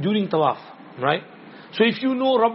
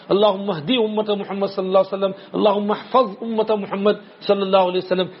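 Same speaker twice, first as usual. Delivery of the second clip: quick rhythmic prayer recital; dua recitation; faster than usual. Shown as a demonstration. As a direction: recite the supplications briskly.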